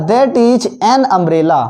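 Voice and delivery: very slow and clear; slow model sentence; slow dictation. Shown as a demonstration. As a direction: dictate it word by word. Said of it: "अगला".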